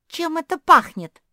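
high loud startled question; sudden alarm. Acted. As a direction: blurt it out suddenly.

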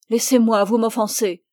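plus forte, le refus indigné d'une femme offensée; repousse-le avec colère; indignée furieuse. Acted. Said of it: "furieuse de cette violence". (la jeune femme repousse Barral, indignée et plus forte)

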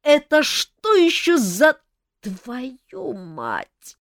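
slow, loud, threatening roar; the king roars at the intruders; furious king bellowing at the room; menacing growl. Acted. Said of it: "грозно прорычал".

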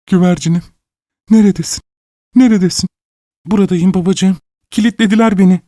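high, breathless happy calls; joyful calling. Acted. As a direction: call out in relief.

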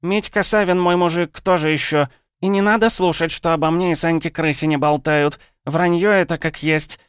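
high, loud brawling yell; shouting woman. Acted. Village woman shouts down the gossip about her. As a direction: bellow the denial at the whole street. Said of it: "крикнула женщина".

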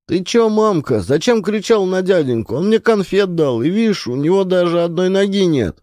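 put-on high small boy scolding his mother; child's voice. A narrator's reading.

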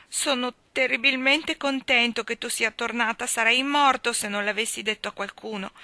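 put-on high, loud, urgent child's voice; distressed little boy. A narrator's reading. Davy clinging to Anna on her return, distressed little boy. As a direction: pour it out like an upset small boy.

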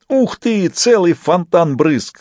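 high squeal, drawn out; shrieking with delight. A narrator's reading. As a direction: yell it out in pure joy. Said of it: "голосил он".

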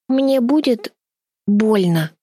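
trembling. A narrator's reading. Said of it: "спросила она, дрожа".

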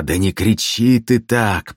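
slow, hungover moan; groaning. Acted. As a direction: hungover minstrel moaning at the noise. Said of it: "простонал гусляр".

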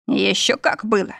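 a smug, lightly voiced husband grinning; smug chuckle. Husband teasing his bride, a touch smug. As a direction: say it with a self-satisfied smirk. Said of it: "самодовольно усмехнулся".

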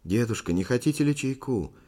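kindly, lilting question; solicitous. A narrator's reading. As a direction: offer it with gentle concern. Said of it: "участливо спросила молодая Павондрова".

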